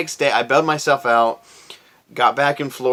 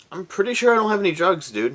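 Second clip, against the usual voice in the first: mock sarcastic denial; 7 semitones higher, faster than usual. Answering cop, retold.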